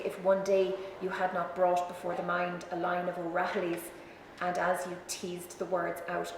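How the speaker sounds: measured, slightly subdued poem reading. Acted. Speaker reads O'Connor's poem for Gerard Murphy to the audience, measured poem reading.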